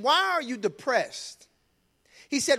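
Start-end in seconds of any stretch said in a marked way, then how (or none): 0.0-1.5 plain question. Acted. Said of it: "He just didn't ask him".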